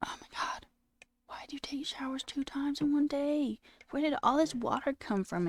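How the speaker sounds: exasperated whisper, keeping it down; annoyed whisper. Real, not acted. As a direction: hush it so the roommate can't hear. Whispering about roommate's showers.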